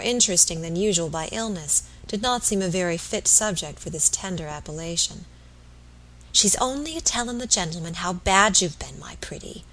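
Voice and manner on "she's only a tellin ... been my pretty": lightly voiced old country mother, trailing to a whisper; doting old mother. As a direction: humour your sick son, softening at the end. Old mother humours her sick son.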